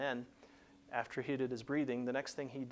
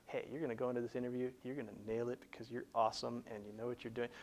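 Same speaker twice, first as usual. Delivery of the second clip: cheerleader inner voice; faster than usual. Retold or imitated. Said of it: "like it's a cheerleader".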